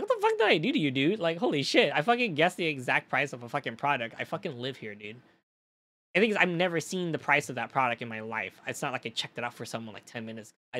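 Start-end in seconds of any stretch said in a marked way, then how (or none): 0.0-5.2 outraged outburst. Retold or imitated. To the rude customer, exasperated mock yell. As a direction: blow up in disbelief.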